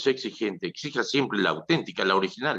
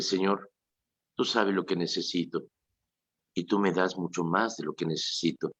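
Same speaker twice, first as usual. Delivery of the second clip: sincere prayer. Shown as a demonstration. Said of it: "asincérate con Dios y decirle".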